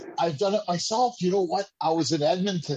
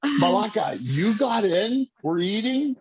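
smug teasing; 6 semitones higher than usual. Retold or imitated. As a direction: rub it in, playfully. Smug retort to the friend.

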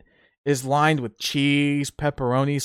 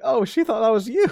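teasing dad; 9 semitones higher than usual. Retold or imitated. Telling his father.

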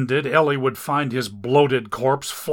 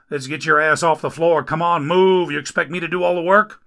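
louder, higher griping rescuer voice; grumbling rescuer; 6 semitones higher, 5 dB louder than usual. Acted. Rescuer complains over injured Dagon, loud grumbling. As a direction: grouse while getting him up.

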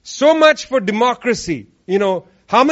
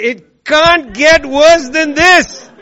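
higher, louder and slow, hammed-up lament; exaggerated mock exasperation; mock despair; 4 semitones higher, 6 dB louder, slower than usual. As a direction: wail it like the worst has come. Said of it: "and then you say".

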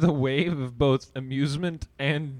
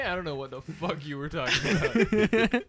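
put-on country accent; 5 semitones higher than usual. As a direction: play a country yokel. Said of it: "country accent".

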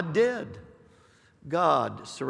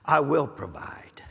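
breathy whispered promise. Acted. Preacher to listeners, whispered promise. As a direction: whisper it like a secret assurance.

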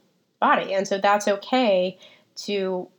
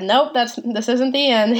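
God's firm reply; 3 semitones higher, 5 dB louder, slower than usual. Retold or imitated. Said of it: "and God said".

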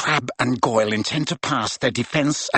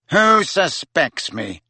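slow, indignant challenge; angry demand; 4 semitones higher, 4 dB louder, slower than usual. Acted. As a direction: bite back at the accusation. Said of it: "said Malfoy angrily".

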